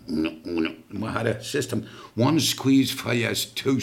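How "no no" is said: low, struggling attempt to say no; imitated stroke speech. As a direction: imitate a man who can barely talk after a stroke. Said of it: "he couldn't talk 'cause he had a stroke".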